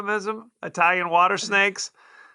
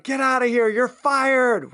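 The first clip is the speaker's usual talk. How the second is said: higher-pitched acted-out firing; mock angry dismissal; 4 semitones higher, slower than usual. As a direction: play the employer yelling at her housekeeper. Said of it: "she's yelling at her housekeeper".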